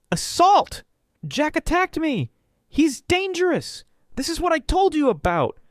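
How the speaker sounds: high, loud, slow hammed-up screams of fake injury; over the top screaming. A narrator's reading. Man faking an injury screams at the family, hammed-up and loud. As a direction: wail it like a bad actor faking an assault. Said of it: "Oscar-worthy screaming".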